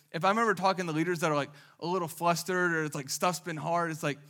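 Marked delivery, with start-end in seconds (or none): none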